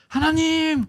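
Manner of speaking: high, loud call of God's name. Acted. Adam running to God, calling his name loudly. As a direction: call out to God like an eager child.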